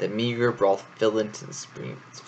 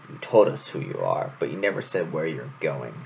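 low fox voice; 5 semitones lower than usual. Acted. Fox voice, lower than narration.

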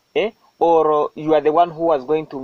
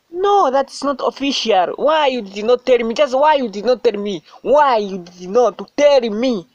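angry accusation; 5 semitones higher than usual. Acted. Accusing partner of hiding death.

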